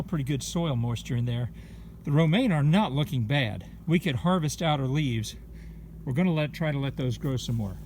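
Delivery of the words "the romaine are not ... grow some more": breathless from garden work; panting between phrases; out of breath. Real, not acted. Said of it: "I'm sorry I'm out of breath".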